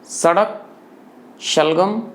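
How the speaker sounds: सड़क with dental s, then शलगम with palatal sh; sibilant contrast. Shown as a demonstration. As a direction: list सड़क, शलगम singly, each lifting at the end. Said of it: "फिर से देखिए". (सड़क में दंत्य स, शलगम में तालव्य श)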